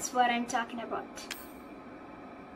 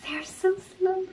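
high, whiny complaint; exasperated whine; 6 semitones higher than usual. Real, not acted. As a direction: groan that they're too slow. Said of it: "They're walking too slow".

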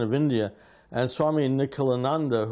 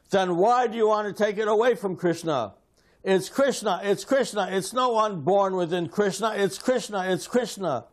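retold forceful outburst, higher pitched; roaring like a lion; 6 semitones higher than usual. Guru rebukes disciple after slamming his hand down, roaring. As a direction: thunder it out, insisting, repeating Krishna. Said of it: "He is roaring like a lion".

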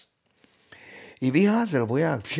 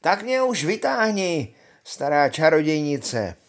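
high, raised call up to someone above; 5 semitones higher, 6 dB louder than usual. A narrator's reading. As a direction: holler up through the hollow tree. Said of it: "zvolal otvorem ve stromě". (hlasité volání vzhůru)

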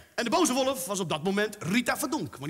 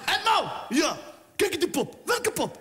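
acted friends' chatter; 7 semitones higher than usual. Acted dialogue of Mo and Karim.

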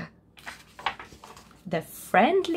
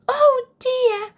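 high, worried "Oh dear"; a bear fretting to himself; worried bear thinking aloud; 14 semitones higher, 4 dB louder than usual. A narrator's reading. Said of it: "thought Bear".

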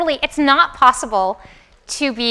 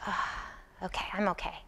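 soft, relieved sigh of settling down; a baby telling itself it's fine, softly; sighing self-soothing; 5 semitones lower, 17 dB quieter, faster than usual. Retold or imitated. Baby voiced calming itself down.

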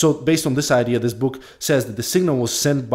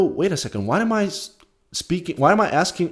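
sudden realization; 6 semitones higher than usual. Retold or imitated. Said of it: "and then I go".

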